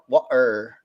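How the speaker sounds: imitated British accent on water, T dropped; Andrew Tate accent. Streamer repeating water for co-hosts, imitated Andrew Tate accent. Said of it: "I was talking about the Andrew Tate freaking".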